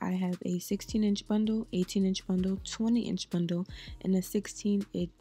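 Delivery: slight lisp, retainers in; talking with a retainer in. Real, not acted. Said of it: "I sound like I have a little lisp".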